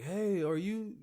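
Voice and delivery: high-pitched, put-on questioning voice; imitated park ranger. Imitating ranger who found him.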